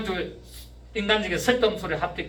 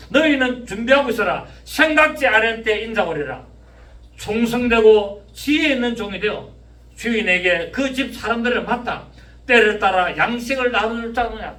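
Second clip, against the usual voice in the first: loud, raised preacher's reading; forceful scripture declamation; 5 semitones higher, 6 dB louder than usual. Real, not acted. Preacher reading the faithful servant verse to congregation, forceful declamation. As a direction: proclaim the verse to the whole room.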